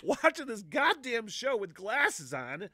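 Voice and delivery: high, loud and slow through laughter; words stretched by laughter; laughing while talking. Real, not acted. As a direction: squeeze the words out mid-laugh. Laughing while describing ugly crying.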